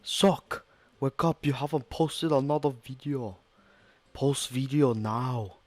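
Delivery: high nagging creature voice; high squeaky puppet voice. Acted. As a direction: squeak it out, pushy and insistent.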